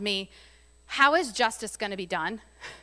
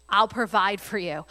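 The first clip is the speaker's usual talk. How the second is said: mock-sweet reassurance; sudden reassurance; 2 semitones lower than usual. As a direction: switch to kindly comfort. Joseph voiced, sudden kind switch.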